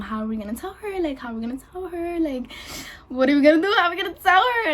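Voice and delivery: retold fretting, rising in pitch; anxious, scared. Pregnant girl asking her sister for help, anxiously. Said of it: "anxious and so scared".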